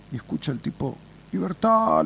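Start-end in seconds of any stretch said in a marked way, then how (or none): 1.3-2.0 parrot squawk. Retold or imitated. Parrot shouting from cage.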